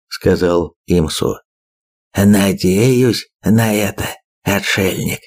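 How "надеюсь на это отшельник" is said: slow hoarse rasp. Acted. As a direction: rasp it out slowly. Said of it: "прохрипел тот".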